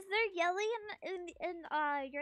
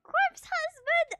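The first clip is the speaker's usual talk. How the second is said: excited shout; 11 semitones higher, 8 dB louder, slower than usual. Real, not acted. Excited guess at sound-alike.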